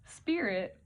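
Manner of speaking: whispered word around a retainer; wearing a retainer. Real, not acted. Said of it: "I have my retainers in".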